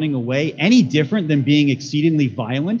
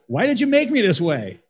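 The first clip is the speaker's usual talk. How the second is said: plaintive complaint; 6 semitones higher than usual. Acted. Baby complaining to its mother.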